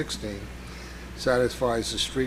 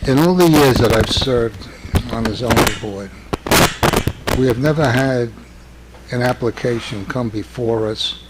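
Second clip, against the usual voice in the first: louder, pushing a hoarse voice; speaking up; 7 dB louder than usual. Real, not acted. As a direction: project over a failing voice. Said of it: "Sir, could you speak up a little?".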